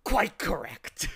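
loud, high, drawn-out triumph; triumphant shriek. A narrator's reading. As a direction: crow it out in triumph. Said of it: "he shrieked triumphantly".

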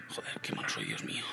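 hushed, whispery grumble; self-reproach under breath. Real, not acted. Gamer cursing his own bad aim, hushed dismay. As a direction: mutter it very softly to yourself.

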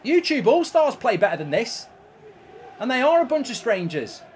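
ranting at the chat while losing badly; furious rant. Real, not acted. Ranting, four nil down.

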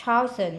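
"Thousand" with weight on "Thou"; first-syllable stress. Shown as a demonstration. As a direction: slowly lean on "Thou" in "Thousand". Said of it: "nhấn âm một".

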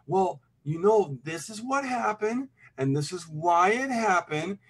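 slow, measured, calm explanation to a partner; very calm explaining. Retold or imitated. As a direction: talk it through slowly, without yelling. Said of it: "I'm being very calm".

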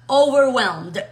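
"overwhelmed" as one connected word, loud; firm, joined-up model of "overwhelmed"; all joined together. Shown as a demonstration. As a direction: run "over" straight into "whelmed". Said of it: "Lo pegamos todo y decimos".

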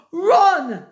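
loud, high cry to flee; panicked shout. A narrator's reading. Horace shouts while running past Cruella. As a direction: bark the order in terror. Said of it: "shouted Horace".

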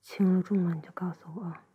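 gentle ear-cleaning whisper. Acted.

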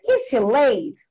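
"is she late?" as an intonation-drill question. Shown as a demonstration. Teacher modelling a textbook intonation exercise, question intonation. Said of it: "And you have questions".

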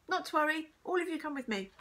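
put-on rally the children kindly; reassuring. A narrator's reading. Teacher takes children with her, reassuringly.

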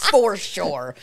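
playful put-on Boston "For sure"; Boston accent. Repeating it as a joke, mock Boston accent.

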